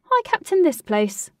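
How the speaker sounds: high, loud, eager boast; excitable, high-pitched. Acted. Captain Cash answering Katie, excitable and high-pitched. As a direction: puff up and blurt it out proudly. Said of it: "he said in an excitable, high-pitched manner".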